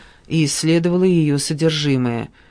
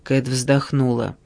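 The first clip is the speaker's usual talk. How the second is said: usual speaking voice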